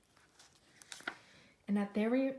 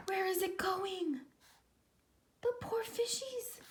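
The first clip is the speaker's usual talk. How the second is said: sad whisper; 8 semitones higher than usual. Real, not acted. Reader pities the fish.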